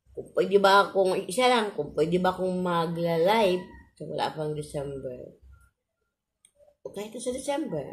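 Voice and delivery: gap-toothed lisping speech; missing front teeth. Real, not acted. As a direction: air slipping through missing front teeth. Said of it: "kasi bungal ako".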